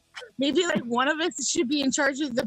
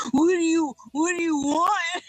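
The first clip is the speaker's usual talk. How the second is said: put-on lightly done SNL Californians accent; 3 semitones higher than usual. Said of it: "the Californians".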